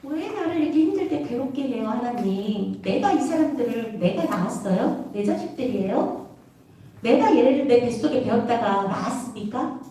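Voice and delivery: understated weary complaint, subdued then rising at the end; mildly acted reproachful appeal; resentful lament. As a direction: plead with God, a touch aggrieved. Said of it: "원망 섞인 하소연합니다".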